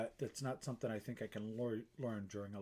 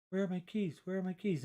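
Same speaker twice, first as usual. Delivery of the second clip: mock panic; 6 semitones higher, 4 dB louder than usual. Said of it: "you go like this".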